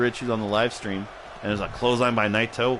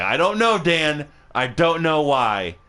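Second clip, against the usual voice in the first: raised, exasperated voice; mock exasperation; 4 semitones higher, 4 dB louder, slower than usual. Real, not acted. Streamer answering Dan's question, exasperated. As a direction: throw it back loudly, drawn out at the end.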